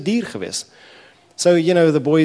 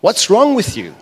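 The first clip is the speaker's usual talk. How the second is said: moaning Pharisees; 4 semitones higher, 4 dB louder, slower than usual. Acted. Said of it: "they're moaning. They say".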